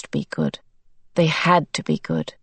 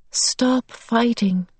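gentle beast; 5 semitones higher, slower than usual. Acted. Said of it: "the beast told her".

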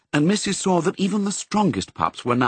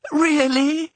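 a much higher, relieved gasp of a question; gasping with relief; 4 dB louder than usual. A narrator's reading. The setter hearing Missus won't blame her, relieved gasp. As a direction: breathe it out in sudden relief. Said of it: "gasping again, but with relief".

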